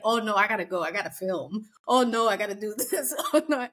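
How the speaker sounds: mocking excuses. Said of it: "recapping all her excuses".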